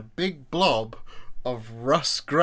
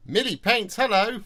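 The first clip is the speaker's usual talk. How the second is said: high, louder cheery hello; bright greeting; 11 semitones higher, 5 dB louder than usual. Real, not acted. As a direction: greet a friend you're glad to see. Greeting a chat viewer brightly.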